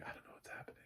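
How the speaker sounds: very soft whisper; whispered confusion. Acted. Blind critic lost in silent scenes, whispering confusion.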